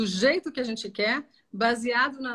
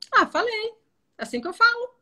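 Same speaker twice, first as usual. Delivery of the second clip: high, louder mock retort; defensive patient; 12 semitones higher, 5 dB louder than usual. Client answering the therapist, defensive. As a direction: imitate a client insisting on their way of talking. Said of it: "Mas você falou desse jeito?".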